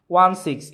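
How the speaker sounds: ওয়ান সিক্স as two digit names, firmly; teacher repeating ওয়ান সিক্স digit by digit; digit-by-digit reading. Shown as a demonstration. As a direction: drive home ওয়ান সিক্স as separate digits. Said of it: "এটার উচ্চারণ হবে হচ্ছে".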